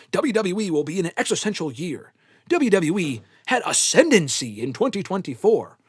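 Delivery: a hint of a grandiose doomsday announcer, mocking; mock-dramatic pronouncement, lightly hammed; mock doom prophet. Mocking chat commenters with an overly dramatic doomsday voice. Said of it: "unless you're prophesizing the end of the world".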